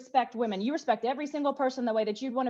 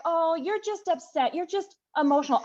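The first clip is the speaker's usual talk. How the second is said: condescending mock; 4 semitones higher than usual. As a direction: drag it out like you're talking down to her. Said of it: "they're like".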